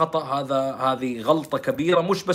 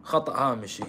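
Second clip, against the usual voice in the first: scornful echo; 4 semitones lower, 4 dB quieter than usual. Retold or imitated. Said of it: "الخطأ الهامشي".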